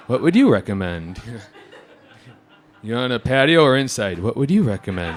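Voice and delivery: mock customer voice, giggling; imitating the customer while cracking up; laughing through the catchphrase. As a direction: chuckle through her helpless question.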